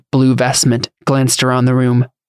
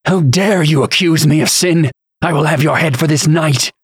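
higher-pitched bishop's outrage; indignant rage; 4 semitones higher than usual. A narrator's reading. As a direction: bristle with offended authority. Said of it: "his face hardened with rage".

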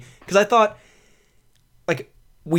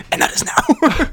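hissed threat; 10 semitones higher, 5 dB louder, slower than usual. Pretend. Ominous joke threat.

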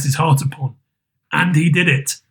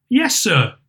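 put-on servant girl; 5 semitones higher than usual. A narrator's reading. Maid answers Scrooge.

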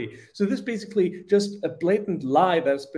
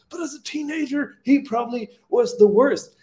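mock gasp of outrage, rising high and then loud; mocking newspapers; 8 semitones higher, 3 dB louder than usual. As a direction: play the scandalised left-wing paper. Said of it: "be like".

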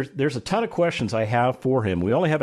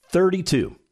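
big reveal; 6 semitones higher than usual. Real, not acted. Host reveals big award number.

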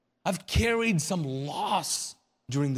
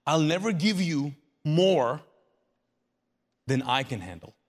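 solemn promise; 4 semitones lower than usual. Acted. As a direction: draw it out, then drop low on "than I can handle". Preacher voicing a solemn promise.

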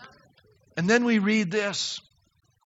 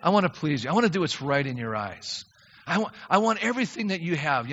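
prayer; 5 semitones lower than usual. Retold or imitated. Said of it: "your passion is to say".

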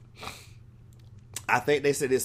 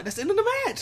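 exasperated quote; much faster than usual. Retold or imitated. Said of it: "I'm like".

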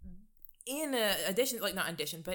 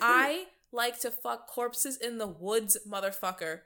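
slow, emphatic parody of a killer; mock killer confession; 2 semitones higher, 5 dB louder, slower than usual. Voicing the murderer to rebut the judge, mock confession. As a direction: drag out the boast, loud at first.

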